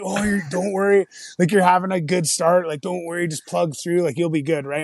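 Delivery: reassuring dad. Retold or imitated. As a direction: talk his son through it, gently encouraging. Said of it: "He's like".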